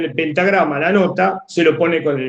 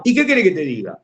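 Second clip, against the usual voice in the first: "¿Y qué querés que te diga?" asked back, stress on qué; question intonation; faster than usual. Shown as a demonstration. Teacher replying to a how-are-you, "qué" stressed as a question. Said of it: "te lo digo así, con ese tono".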